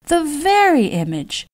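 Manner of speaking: high, delighted gush; gushing lady. A narrator's reading.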